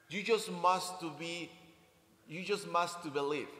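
lightly mimicked pushy reassurance; mock glib advice. People telling a struggling friend, mildly mocking. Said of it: "saying to somebody else when somebody else is struggling".

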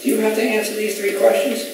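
high, thin-volume retold aside; younger prosecutor. Younger prosecutor leaning over to the older one, high-pitched question. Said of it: "younger prosecutor leaned over the older one and says".

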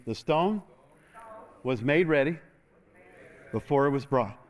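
call and response. Shown as a demonstration. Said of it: "Say it with me".

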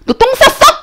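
very high, incredulous question; shocked mom. Retold or imitated. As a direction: squeal it in mock disbelief. Retold mom shocked by stain.

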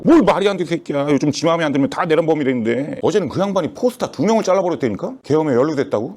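usual speaking voice

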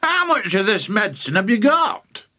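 high, urgent question; excited shout. A narrator's reading. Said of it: "Mister Crankie shouted".

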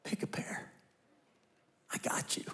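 soft, unvoiced, intimate reassurance; gentle fatherly whisper; tender whisper. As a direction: whisper it like a father comforting his child. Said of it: "hear your Heavenly Father go".

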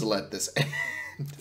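hushed, breathy near-whisper with a nervous laugh; whispering while hiding. Real, not acted. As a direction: keep it under your breath so he can't hear. Hiding from a stalker, terrified.

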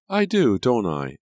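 high, loud mock exclamation; a smug, delighted exclamation; exclaiming. A narrator's reading. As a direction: toss it off with a high teasing cry. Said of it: "Angelica exclaimed".

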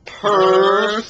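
cat pun. Pretend.

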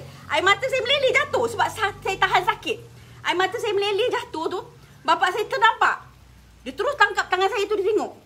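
telling it while fighting tears; tearful retelling. Real, not acted. Tearful memory of burned hands. (bercerita sambil menahan tangis)

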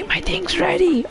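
high thrilled call; gleeful announcement; excited. Real, not acted. Ultimate charged, excited.

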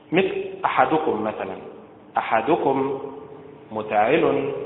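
أحدكم with the stress on the first syllable, the hamza; stress on first vowel. Shown as a demonstration. Teacher models Quranic stress, first syllable of أحدكم stressed. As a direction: lean on the opening أ of أحدكم. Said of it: "النبر فيها على حركة الهمزة".

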